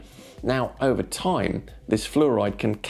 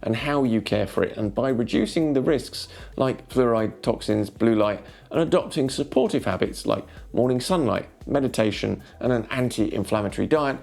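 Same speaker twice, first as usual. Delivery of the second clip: smooth, measured narration over music; soothing documentary-style voiceover; wellness voiceover. Acted. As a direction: read it like a calm inspirational video script.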